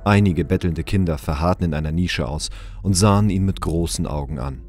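ordinary talk

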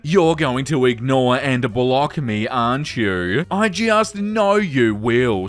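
hammed-up creep. Rereading creepy message dramatically.

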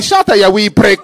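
loud mock Glaswegian outburst; Glaswegian accent. Man behind silencing the heckler, loud Glaswegian put-down. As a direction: snap it out in a Glasgow accent. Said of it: "Only in Glasgow".

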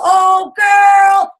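loud, drawn-out mock gush; mock gushing shout. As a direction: belt it out like a cheerleader. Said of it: "until they give you that cash".

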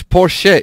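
"Porsche" as por-SHEH. Shown as a demonstration. Correcting it for the chat, "Porsche" as por-sheh. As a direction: say "Porsche" with a sounded final "eh". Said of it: "It's with an E".

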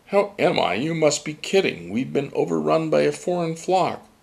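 put-on a fed-up old gull; lightly voiced indignant Johann; Johann, exasperated. A narrator's reading. Johann complains to the child.

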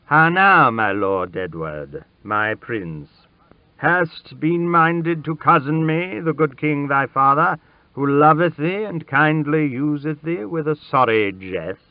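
a king addressing his son, lifted tone; gentle king. A narrator's reading. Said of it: "his face grew gentle as he began to speak".

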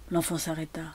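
usual speaking voice

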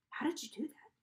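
hushed, high amazement; amazed. A narrator's reading. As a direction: ask in amazement, voice lifted. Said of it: "I asked her, amazed".

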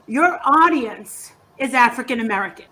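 ordinary delivery

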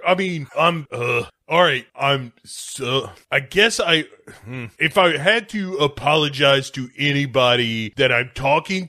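halting, with stalls and restarts; grudging apology. Acted. Milo forced to apologize to his friend, grudging and halting. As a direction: squeeze out an apology reluctantly.

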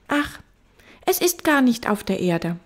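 put-on high child voice; little prince. Little prince correcting the fox, high child voice. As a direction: correct gently as a small boy.

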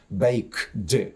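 baked split as bake, then a voiced "dy"; separate voiced D. Shown as a demonstration. Teacher shows the awkward reading, separate voiced D on baked. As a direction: say baked with a detached, released D after the K. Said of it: "а потім дзвінки д".

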